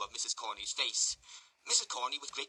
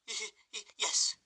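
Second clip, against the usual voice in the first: high, stammering then louder yes; stammered sigh; 11 semitones higher, 5 dB louder, slower than usual. Acted. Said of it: "sighed out the matron".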